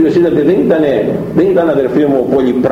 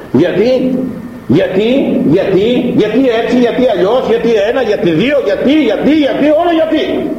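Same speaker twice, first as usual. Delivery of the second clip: mock questioning; 11 semitones higher than usual. Mimics doubting reasoning mind.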